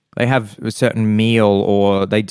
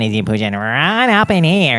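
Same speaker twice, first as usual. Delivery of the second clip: nasal Australian twang; Australian accent; 4 semitones higher than usual. Shown as a demonstration. Demonstrating Australian accent, voice pushed up nasal. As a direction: push the Australian accent up into the nose. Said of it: "that's how you do an Australian accent".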